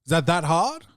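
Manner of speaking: mock fed-up customer; exasperated. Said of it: "I was like".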